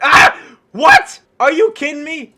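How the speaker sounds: a high, loud startled what; shocked yelp. Real, not acted. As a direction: squeal in disbelief. Surprised by petal mob.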